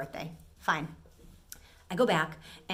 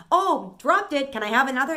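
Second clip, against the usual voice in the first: mock customer; 6 semitones higher, 8 dB louder than usual. Mock customer pulling a trick.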